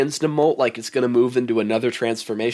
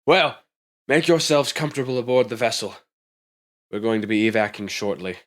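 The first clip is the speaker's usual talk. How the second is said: executive woman. Acted.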